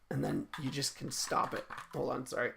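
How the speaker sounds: breathless, catching breath; talking out of breath. Real, not acted. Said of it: "I'm out of breath".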